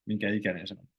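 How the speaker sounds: quick, casual run-together question; said quickly. Shown as a demonstration. Finnish teacher showing learners the quick casual way. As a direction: rattle it off as in everyday speech. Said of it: "When you say quickly".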